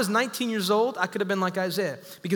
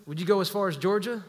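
imitated Southern accent. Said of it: "with a big Southern accent".

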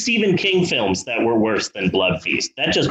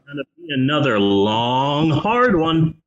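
movie character voice. Retold or imitated. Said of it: "Love that line".

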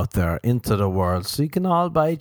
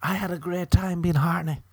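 sheepish self; 9 semitones higher than usual. Pretend. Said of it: "And you'll be like".

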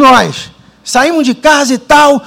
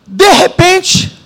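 de repente drawn out very slowly; slow suspenseful; 5 semitones higher, much slower than usual. Acted. Preacher building up the moment his mother cried, slow suspense.

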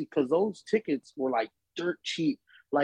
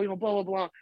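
usual speaking voice

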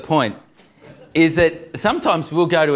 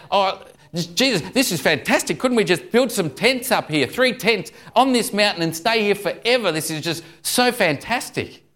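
eager, higher-pitched acted enthusiasm; caught-up excitement; 6 semitones higher than usual. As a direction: gush as an awestruck disciple. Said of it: "so caught up and excited about it".

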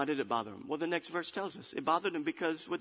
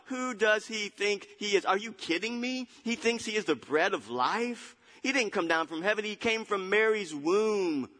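mildly raised, scoffing incredulity; indignant disbelief; 7 semitones higher than usual. Acted. Crowd rejects that he came from heaven, indignant. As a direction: scoff at the claim.

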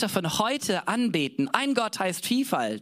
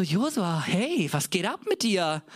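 higher, worked-up protest to Joshua; indignant protest; 5 semitones higher than usual. Retold or imitated. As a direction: challenge him, incredulous. Preacher scolds Joshua in quote. (Prediger protestiert aufgeregt gegen Josua, höher)

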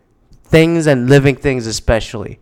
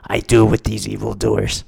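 secret inner voice; 4 semitones lower, 6 dB quieter than usual. Retold or imitated. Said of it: "you're like".

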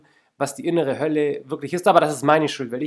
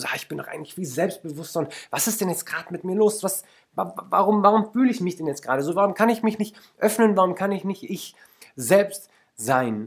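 higher, faltering self-doubting thoughts; insecure inner voice; 4 semitones higher than usual. Retold or imitated. Podcaster voicing the listener's blocked inner thoughts, higher and unsure. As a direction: stammer out the panicked questions a bit high. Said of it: "eigentlich denkst du".

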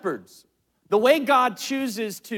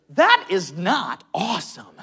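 slow, louder, firm retort; stern correction; 2 semitones lower, 6 dB louder, slower than usual. Retold or imitated. Girlfriend correcting her distracted boyfriend, slow and stern. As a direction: set him straight, word by word.

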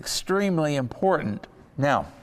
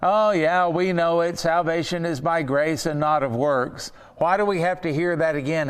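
mock impatient churchgoer. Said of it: "whenever you find yourself going".

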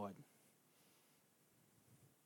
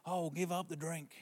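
desperate plea; 4 semitones higher, 6 dB quieter than usual. Retold or imitated. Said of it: "they go".

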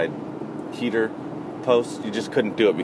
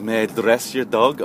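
lightly mocked European accent; 4 dB louder than usual. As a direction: ask politely in a put-on European accent. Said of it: "a European accent".

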